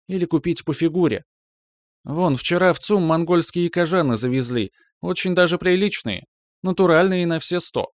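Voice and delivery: high, eager gossiping lady; high-pitched shop talk, keen to share; chatty friend lady. Acted. Friend lady recommends Mongolian leather coats, high and eager.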